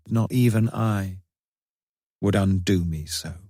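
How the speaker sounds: slow, hushed recitation of a poem; poem reading. A narrator's reading. Grieving diarist reciting Hardy's poem to himself, slow and hushed. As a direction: read the lines as if copying them out slowly.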